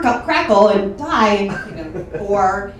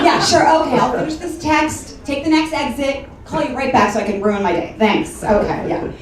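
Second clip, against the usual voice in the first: sarcastic compliance. Acted. Comic answering mom's voicemail in her head, sarcastic. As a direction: agree sarcastically, tossing off the thanks.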